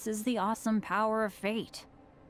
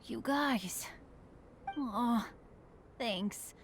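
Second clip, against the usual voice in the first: touched whisper; 6 dB quieter, much slower than usual. Acted.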